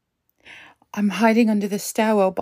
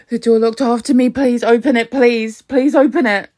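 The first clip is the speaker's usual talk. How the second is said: louder, urgent begging; desperate pleading; 5 dB louder than usual. Acted. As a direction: plead with the app to open the door. Locked in, begging the app.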